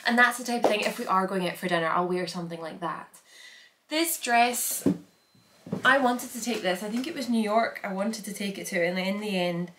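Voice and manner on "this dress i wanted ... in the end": out of breath. Real, not acted. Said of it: "sorry, I'm, like, out of breath".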